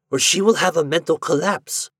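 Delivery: high-pitched, earnest exclamations; exclaiming. A narrator's reading. Doctor describing a frightened patient to Ford, exclaiming. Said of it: "he exclaimed".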